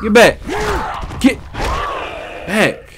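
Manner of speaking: high, loud, sharp shout. Real, not acted. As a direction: yell it at the attacker. Shouting at zombie.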